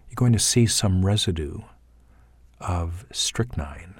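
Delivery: lightly voiced Caruso, each thought falling; imitating David Caruso. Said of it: "He, he might say".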